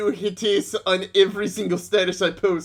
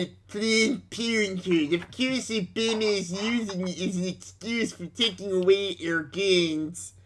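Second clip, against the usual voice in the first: angry Facebook poster; 4 dB quieter than usual. Pretend. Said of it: "the more you go into that impression".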